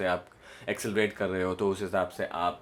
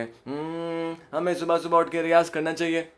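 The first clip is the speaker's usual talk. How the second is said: the line sung a little higher, in the middle of the range; middle register; 5 semitones higher than usual. Shown as a demonstration. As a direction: lift it to the middle note. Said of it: "बीच का".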